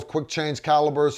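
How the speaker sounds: ordinary delivery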